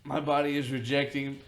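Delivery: talking through hiccups. Real, not acted. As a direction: speak while hiccuping. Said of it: "You've got the hiccups".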